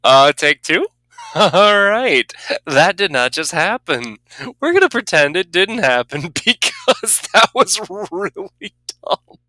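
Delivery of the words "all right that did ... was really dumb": shocked laughter. Real, not acted. Laughing after a dumb death.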